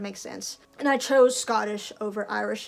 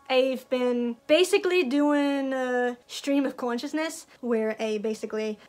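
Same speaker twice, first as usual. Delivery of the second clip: halting, rough attempt at a Scottish accent; amateur Scottish accent. Shown as a demonstration. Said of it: "but with a Scottish accent".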